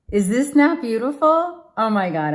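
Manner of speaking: laughing, high and loud with delight; delighted laughing gush. Real, not acted. Tarot reader thrilled by the card spread, laughing gush. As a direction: burst out in joy at the cards.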